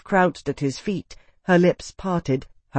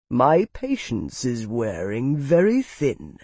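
slow, controlled threat; menacing warning; 3 semitones lower, slower than usual. Acted. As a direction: warn them with strained patience. Lord warns the quarrelling men.

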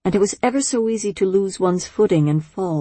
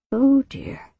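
high, rising worried "Oh dear"; 6 semitones higher than usual. Acted. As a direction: lift it up in alarm. Repeated worried exclamation.

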